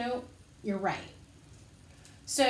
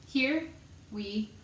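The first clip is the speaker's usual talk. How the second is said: slow count-in; slower than usual. Shown as a demonstration.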